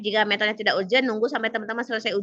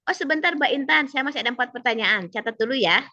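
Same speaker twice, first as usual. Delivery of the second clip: examiner interrupting; 3 semitones higher than usual. Acted. Examiner holding off an eager exam candidate, interrupting. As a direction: voice an examiner asking for a moment, lifted pitch at first. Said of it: "kalau penguji, lihat intonasi penguji".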